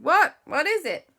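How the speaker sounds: high, sharp alarmed question; startled Andy. Acted. Andy asking the boys what they saw, startled. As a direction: snap to attention, confused.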